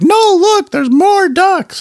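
put-on very high, slow excited child's shout; imitating his kids yelling in discovery; kids screaming. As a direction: shriek it like an excited little kid. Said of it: "And they're like".

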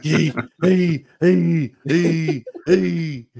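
loud high-pitched goofy calling; mock character call. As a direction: punch out each one high and loud, evenly spaced. Riffing on the Forrest Gump voice.

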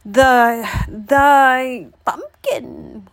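put-on loud, slow old man holler. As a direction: call out haltingly.

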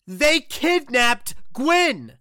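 very slow, spaced-out "kidnapped Gwyn"; emphatic repetition. Acted. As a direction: repeat it with "Gwyn" drawn out long. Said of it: "we heard you the first time".

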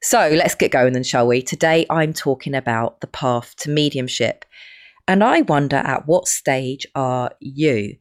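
hoarse voice from a cold; croaky, rough from a cold. Real, not acted. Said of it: "my really strange croaky voice".

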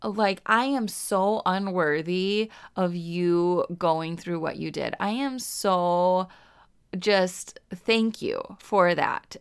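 slow, hushed gratitude; slow, humble thank-you to God; humble prayer. Pretend. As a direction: pray it slowly, as if unworthy. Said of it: "that we would say".

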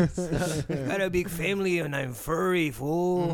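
squirrel impression. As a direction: play along as a squirrel. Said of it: "That's the best squirrel impression".

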